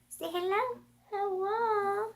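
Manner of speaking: high, soft coaxing pet voice. Real, not acted. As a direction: coax the puppy sweetly, up high. Coaxing dog to greet.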